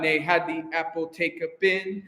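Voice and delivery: brisker rhythmic demo. Shown as a demonstration. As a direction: model the line moving along in time. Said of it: "Now just a little faster".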